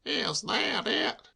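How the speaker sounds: slow, deflated disbelief; a touch of dull dismay; dully. A narrator's reading. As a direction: let the hope drain out, slowly. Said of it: "he said dully".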